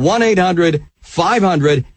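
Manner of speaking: slow phone number, group by group; measured announcer read of the digits; slow dictation. Real, not acted. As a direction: give listeners time to write it down. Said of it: "slowly for two free bottles today".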